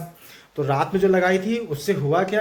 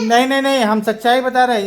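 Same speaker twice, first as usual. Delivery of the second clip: raised, higher insistent no; insistent protest; 5 semitones higher, 4 dB louder, faster than usual. Real, not acted. Mother insisting to the kids she tells the truth, raised and higher. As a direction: protest loudly that she's telling the truth.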